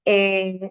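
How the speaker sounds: a Spanish "eh" filler; Spanish hesitation sound. Shown as a demonstration. Teacher showing what gives away her foreignness, hesitation "eh". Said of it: "produzco el sonido de vacilación tipo".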